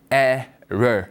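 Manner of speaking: "error" drawn out slowly in English, falling at the end; English pronunciation. Shown as a demonstration. Teacher repeats the word for learners, slow English "error". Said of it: "다시 한번 글자 보시면서 갑니다".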